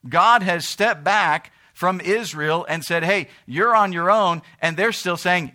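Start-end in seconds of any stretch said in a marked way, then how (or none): 3.0-4.4 louder, higher acted brush-off; blunt dismissal. Preacher voices God stepping back from Israel, bluntly dismissive. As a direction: send them off with raised voice. Voicing God walking away.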